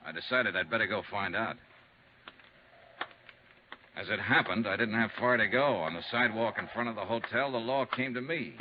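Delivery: measured noir narration over music; hard-boiled detective narrating his case; story narration. A narrator's reading. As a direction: set the wintry scene calmly, storyteller style.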